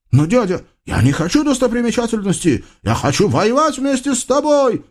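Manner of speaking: высокий быстрый протест юноши; возрази высоко и горячо; упрямый юноша. Acted. Юноша спорит с дядей. (высокий горячий голос Юсуфа)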